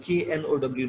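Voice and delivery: ordinary talk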